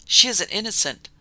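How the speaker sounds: loud, pleading outrage; outraged protest. A narrator's reading. Sir Robert protesting loudly to Sardonicus. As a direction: defend her with force. Defending Maud against threats.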